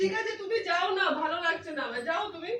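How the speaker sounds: subdued, softly tearful dismissal; quietly upset, asking to be left alone; low-key and close to tears. Real, not acted. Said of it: "কাঁদিস না".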